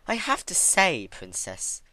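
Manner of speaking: Twilight's character voice. Acted. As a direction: tease the patient with mock concern.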